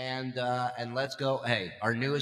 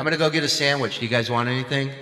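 imitating reverb voice; 9 dB louder, faster than usual. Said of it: "she had reverb".

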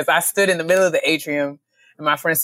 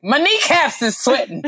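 high mock friend voice; 9 semitones higher than usual. Friend Pam voiced in story.

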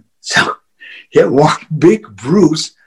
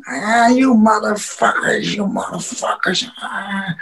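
slow mock grumbling, trailing off softer; drunken old guy; 3 semitones higher, 5 dB quieter than usual. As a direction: imitate a drunk old man cursing. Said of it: "walking like the old guy gimmick".

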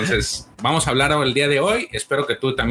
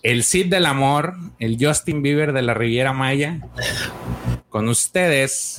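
announcer intro. Acted. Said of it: "¿Yo lo presento?".

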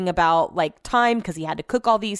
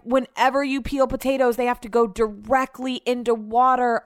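retold scolding; 4 semitones higher than usual. Retells partner scolding her about potatoes.

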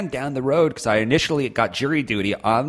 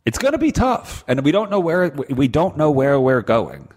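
mock dramatic intro; 3 semitones higher than usual.

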